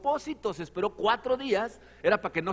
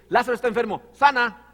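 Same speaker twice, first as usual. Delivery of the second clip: loud, high urgent plea; urgent messenger; 8 semitones higher, 12 dB louder than usual. Retold or imitated. Messenger begging Jesus to heal Lazarus, loud and pleading. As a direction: cry out the news and beg him to heal. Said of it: "le dijo".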